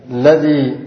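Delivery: الذي without its opening al, just ladhi; dropped alif and lam. Shown as a demonstration. Teacher showing the sixth dialect form, الذي said as ladhi. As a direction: start الذي straight on the l, light final ee. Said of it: "حذف الألف واللام".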